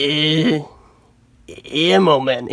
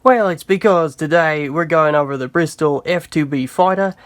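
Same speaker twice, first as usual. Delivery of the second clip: light put-on Australian accent on "Bristol F two B fighter"; jokey Aussie accent, half-committed; a mild Australian accent read; corny Australian accent. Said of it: "such a corny Australian accent".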